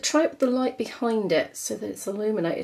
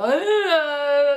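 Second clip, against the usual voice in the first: tearful laugh; 6 semitones higher, 5 dB louder than usual. Real, not acted. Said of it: "I'm so emotional".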